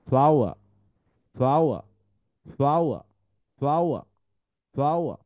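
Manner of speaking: ফ্লাওয়ার blended from ফ্ল, আউ, আর; word drill. Shown as a demonstration. Teacher drilling a blended word for pupils. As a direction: repeat ফ্লাওয়ার as one clear word. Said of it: "এটা তিনটা ভাগ করি আমরা".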